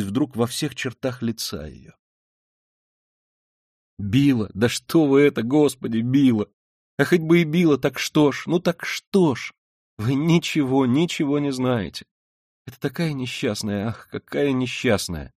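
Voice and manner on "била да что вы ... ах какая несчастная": high, loud, agitated outburst; impassioned protest full of pity; anguished defence. A narrator's reading. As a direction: cry out in compassion, pleading her case. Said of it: "ужасно хотелось что-то выразить, сказать, заступиться".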